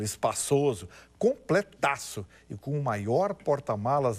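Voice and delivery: upbeat car dealer ad read; booming prize announcer. Acted. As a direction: sell it like a radio pitchman. (locutor de anúncio animado)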